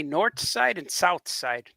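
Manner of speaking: slow demo of "north side and south side" with T for TH; Chicago-style "north" and "south", the final TH hardened to T. Shown as a demonstration. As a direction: say "north" and "south" ending in a hard T, no H. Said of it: "There's no H".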